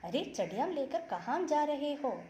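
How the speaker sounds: high, fast, curious wasp; quick chirpy question to the chicks; lightly voiced busy wasp; wasp asking. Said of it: "Burr is asking them".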